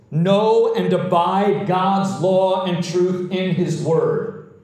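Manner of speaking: slow, emphatic sermon delivery; forceful preaching. Real, not acted. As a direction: preach it slowly, weighting each key word.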